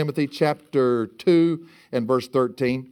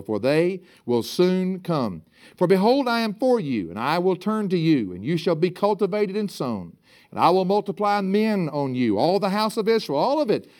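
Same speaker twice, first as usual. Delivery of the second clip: higher, declaimed Bible reading; scripture reading; 3 semitones higher than usual. Acted. Preacher reads God's promise to Israel's mountains, higher declaimed reading. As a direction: proclaim the promise verse by verse.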